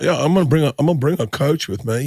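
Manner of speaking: attempted posh London with underbite; posh English accent. Shown as a demonstration. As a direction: jut the jaw for mock-posh English. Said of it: "if you do an underbite".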